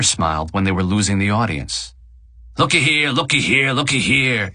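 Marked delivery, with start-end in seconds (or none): 2.6-4.5 cooing. A narrator's reading. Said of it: "Eddie cooed".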